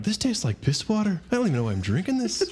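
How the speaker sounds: high Irish voice, quickening at the end; hammed-up Irish grumble; mock Irish accent. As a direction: complain in a put-on Irish accent. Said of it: "I can do an Irish accent".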